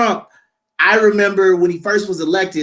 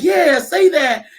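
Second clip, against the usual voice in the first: slow, drawn out cheer of approval; mock cheering fan; 7 semitones higher, 3 dB louder, much slower than usual. Newcomers cheering him on, slow mock cheer.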